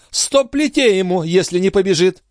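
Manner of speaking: high-pitched, imperious threat; angry countess. A narrator's reading. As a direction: threaten the servant in a high, cross voice. Countess threatens her servant.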